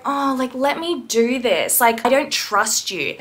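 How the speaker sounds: slow, whiny imitation of a rude piercer; whiny mock. Mocking a piercer whining at a client: slow whine. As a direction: drag it out like a sulky child. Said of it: "you don't sort of whine at them".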